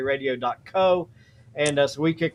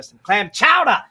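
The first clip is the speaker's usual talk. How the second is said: 1 excited; 6 semitones higher, 7 dB louder than usual. Real, not acted. Excited Boston trip recollection.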